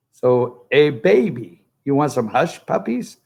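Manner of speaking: light mock Southern come-on; put-on Southern accent. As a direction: imitate a candidate trying a Southern accent. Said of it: "their Southern accent".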